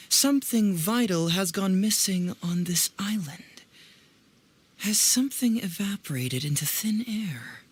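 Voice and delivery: whispered, slow, puzzling it out; musing whisper. Real, not acted. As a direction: hush your voice as you wonder aloud. Musing over the dream's message.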